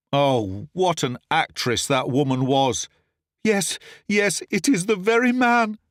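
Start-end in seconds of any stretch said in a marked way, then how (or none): 3.4-5.8 high, urgent accusing voice; lady accusing. A narrator's reading. The lady names the thief to the servants, high accusing cry. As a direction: point him out with false outrage. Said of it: "she cried".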